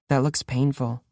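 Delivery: quiet, totally uninflected; no inflection. Acted. Girl remarking on the prisoner's wound without any inflection. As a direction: say it as if it means nothing. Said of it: "There was no inflection in her voice".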